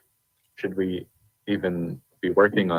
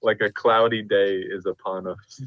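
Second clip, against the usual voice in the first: slow, gloomy monotone. Pretend. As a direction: drone it like a cloudy day. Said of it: "frequency of monotone".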